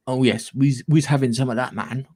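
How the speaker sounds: badly faked German accent; terrible German accent. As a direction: put on a clumsy mock German accent. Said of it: "that's a terrible German impression".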